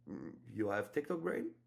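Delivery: a timid question without confidence; unsure, hesitant. Shown as a demonstration. Coach shows the wrong frame for opening a woman, hesitant and quiet. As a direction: ask it shyly and tentatively. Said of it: "That's not gonna work".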